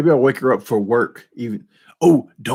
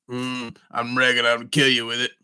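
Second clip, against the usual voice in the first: Sling Blade voice; 5 dB quieter than usual. Retold or imitated. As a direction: mumble it quietly like Karl. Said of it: "Sling Blade".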